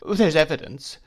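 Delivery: high, tearful outburst; sobbing. Acted. Wife sobbing as she pleads her case. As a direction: push it out through sobs.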